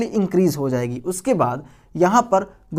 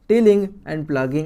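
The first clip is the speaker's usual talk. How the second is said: slow term; 2 semitones lower, much slower than usual. Shown as a demonstration. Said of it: "term repeated slowly".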